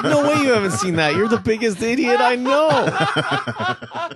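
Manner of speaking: loud incredulous laugh; laughing disbelief. Retold or imitated. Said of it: "I was like".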